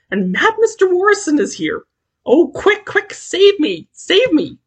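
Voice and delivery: high and loud, begging to be saved; terrified high plea; frightened shriek. Acted. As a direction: shriek for help, slowing on save me. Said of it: "she shrieked".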